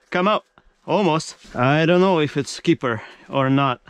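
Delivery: 흥분한 목소리; excited. Real, not acted. Big fish coming up, excited.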